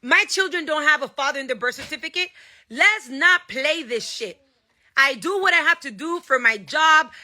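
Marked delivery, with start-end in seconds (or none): 2.7-4.4 slow warning. Real, not acted.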